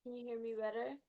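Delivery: faint, distant voice; barely audible. Real, not acted. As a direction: speak as if far from the mic. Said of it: "your voice is very faint".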